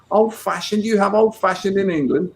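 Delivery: high-pitched mock astonishment; incredulous quote. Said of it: "I won't do an American accent".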